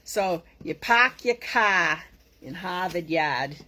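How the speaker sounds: slow Boston accent, dropping the r in "park", "car" and "Harvard Yard". Shown as a demonstration. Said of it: "And you have to have the ah".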